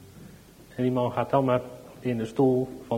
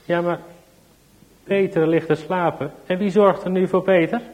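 worried mother; 6 semitones higher, 7 dB louder than usual. Acted. Mother pleads for her son.

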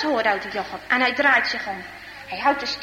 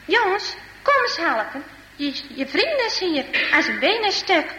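girl calling out, lightly acted; mild storybook call for help, starting high; 4 semitones higher than usual. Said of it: "En ze roept". (licht gespeeld roepen om hulp)

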